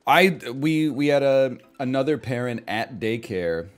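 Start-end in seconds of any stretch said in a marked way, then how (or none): none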